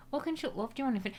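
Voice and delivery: mock Northern English impression; Northern English accent. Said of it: "I always do Northern".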